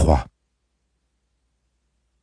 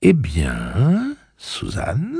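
calm and measured; 5 semitones higher, much slower than usual. Acted. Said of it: "d'une voix calme et modulée".

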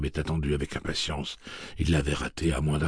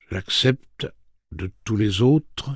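changed voice; 5 semitones higher, 6 dB louder, slower than usual. A narrator's reading. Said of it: "dit Andy d'une voix changée".

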